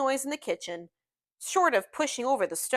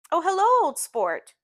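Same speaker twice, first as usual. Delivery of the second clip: high, loud hello falling back to usual; delighted greeting; 8 semitones higher, 5 dB louder than usual. A narrator's reading. Gatsby greeting his friend as if after years, delighted. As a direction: greet a long-lost friend. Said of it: "as if he hadn't seen me for years".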